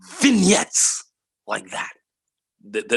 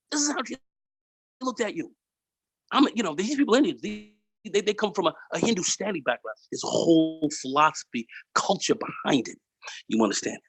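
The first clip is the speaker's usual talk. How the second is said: put-on high-pitched Indian-accented retelling of the owner's lecture; imitated Indian accent; 9 semitones higher than usual. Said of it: "I'll try to get his accent down".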